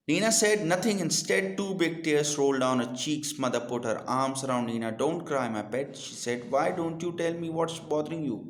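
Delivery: put-on slow, clear reading to children; slow deliberate read-aloud for young learners; storybook reading. A narrator's reading. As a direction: read the story slowly and carefully. Reads English story aloud.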